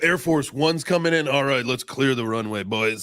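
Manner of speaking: lightly voiced airfield crew chief clearing the way; mock runway controller. Joking to friends that the president is landing, mock runway controller. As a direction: playfully announce an important arrival.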